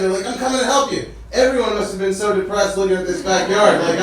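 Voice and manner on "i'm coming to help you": eager neighbors calling down, higher; excited offer to pitch in, acted out. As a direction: mildly imitate excited volunteers. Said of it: "they were so excited".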